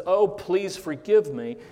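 retelling the servant begging the king; pleading servant. Retold or imitated. Preacher voicing the debtor begging the king, mild plea. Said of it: "pleads with the king and says".

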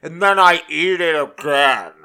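loud, hammed-up Chicago accent attempt, slowed on the pizza; failed Chicago accent. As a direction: play the stereotyped Chicago fan in a botched Chicago accent. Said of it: "I don't even know what accent that was".

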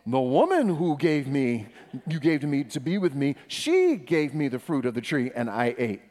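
loud, insistent passing of blame; blame-shifting Adam. Acted. Preacher reads Adam's answer to God, blaming. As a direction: push the blame firmly onto her. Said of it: "in classic form".

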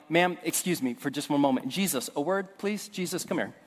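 pulling Jesus aside, soft and tense; quiet urgent word on the side; hushed aside. Retold or imitated. Pastor pulling Jesus aside, hushed and tense. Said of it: "And I'm like".

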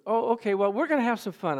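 a touch of relentless cheer, mimicked; too happy. Hygienist answering a reluctant patient, mildly mimicked as too happy. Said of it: "She's just too happy".

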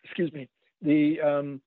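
pausing to blow nose; talking around a nose blow. Real, not acted. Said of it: "blowing my nose here".

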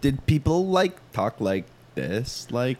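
a hint of Valley Girl drawl, rising at the end; mock Valley Girl accent. Asking co-hosts how locals talk, mock Valley Girl. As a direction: lightly put on Valley Girl uptalk, drawn out. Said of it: "Valley Girl".

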